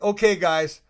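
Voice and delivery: rally the plane jokingly; mock announcement. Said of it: "I'm like".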